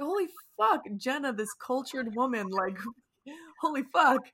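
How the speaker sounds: mock-stunned outburst, pitch leaping up; shocked. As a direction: re-enact being stunned by a friend. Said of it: "which I was shocked".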